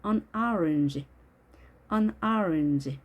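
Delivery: "orange" stressed up front, second vowel short and weak; stress on first vowel. Shown as a demonstration. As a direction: lean on the "or" of "orange", reduce the rest. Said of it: "강세가 오에 있기 때문에". (orange의 오에 강세, 뒤 모음은 약하게)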